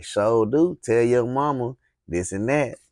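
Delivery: lightly Southern, lifted sure do; Southern accent. Shown as a demonstration. Showing reading in the South, Southern accent. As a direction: loose Southern folksy read. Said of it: "talk, like, with the South".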